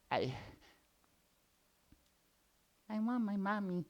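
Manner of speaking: whimpering lion. Acted. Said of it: "The lion started crying".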